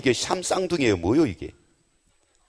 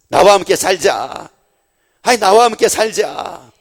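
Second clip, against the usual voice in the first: louder, fervent sermon delivery building to a high plea; full-force preaching; 3 semitones higher, 6 dB louder than usual. Acted. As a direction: preach it, pressing the love home. Preaching Jesus's words to Peter. (열정적으로 외치는 설교)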